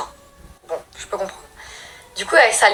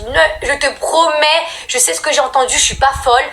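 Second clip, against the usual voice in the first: tearful pleading; 4 semitones higher than usual. Retold or imitated. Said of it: "en pleurs".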